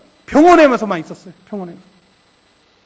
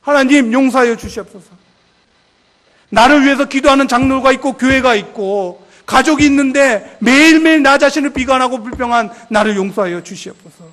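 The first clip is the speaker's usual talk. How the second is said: tearful repentance; 5 dB louder than usual. Retold or imitated. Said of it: "눈물로 회개했어요".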